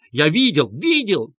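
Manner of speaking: shouted insistence. A narrator's reading. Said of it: "кричал и подтверждал Лебезятников".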